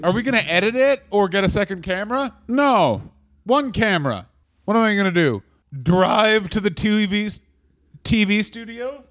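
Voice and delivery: mildly voiced stingy promoter, dismissive; mock stingy promoter. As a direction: lightly play the tightwad boss scoffing at a second camera. Mocking the cheap old promoters.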